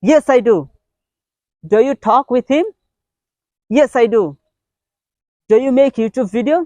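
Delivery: animated drill, questions lifted high, answers emphatic; acted-out question and answer. Shown as a demonstration. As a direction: act out each question and reply with energy. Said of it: "তখনও acting করবেন".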